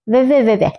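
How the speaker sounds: put-on sing-song childish taunt; mocking taunt. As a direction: tease her again with a nyah-nyah. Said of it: "మళ్ళొకసారి వెక్కిరిస్తూ".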